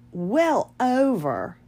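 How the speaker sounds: "well over" drawn out slowly; "well over" said slow, falling at the end; emphatic. Real, not acted. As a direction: stretch both words of "well over". Emphatic repeat of time span.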